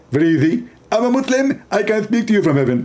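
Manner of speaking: a light parody of a preacher's lecturing voice; half-hearted preacher impression; mock Zakir Naik. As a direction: play a pompous debater, lightly. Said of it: "He speak like this".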